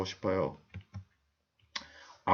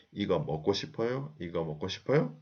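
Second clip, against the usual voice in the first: 이거 먹고 싶어요 run together, rising on 요; rising question intonation; 3 dB quieter, much faster than usual. Shown as a demonstration. Teacher models the whole question for learners, 이거 먹고 싶어요 with a final rise. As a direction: ask 이거 먹고 싶어요 with an upward ending. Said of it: "the intonation goes up".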